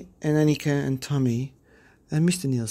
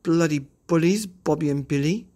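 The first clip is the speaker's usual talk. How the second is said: put-on lightly raised bold girl voice; Pippi scolding; 6 semitones higher, 3 dB louder than usual. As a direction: tell the bullies off, cheeky.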